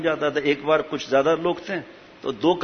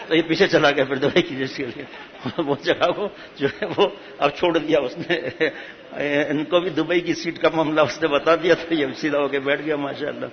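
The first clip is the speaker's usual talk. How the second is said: chuckling through the telling; laughter breaking into the words; amused. Real, not acted. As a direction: tell the punchline while laughing. Amused at his own funny anecdote.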